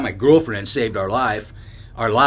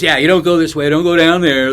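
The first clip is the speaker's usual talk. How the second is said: warning stranger; 4 semitones higher, 8 dB louder than usual. Retold or imitated. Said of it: "he says".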